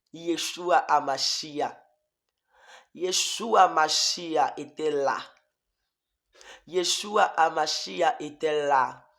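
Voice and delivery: slow, reverent naming of Yeshua; slow reverent awe; awed. Real, not acted. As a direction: say the name slowly in awe. Awe at seeing the Lord.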